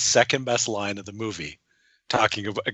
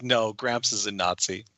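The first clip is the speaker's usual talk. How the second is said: slow, offhand deadpan; deadpan sister reply; casual; 2 semitones lower, 5 dB quieter than usual. Retold or imitated. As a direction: toss it off casually. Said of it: "And she says".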